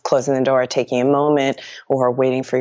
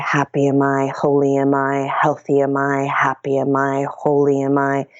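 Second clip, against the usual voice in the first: guided meditation. Acted. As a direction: lead the breath calmly, chanting the mantra. Leads mantra repetition.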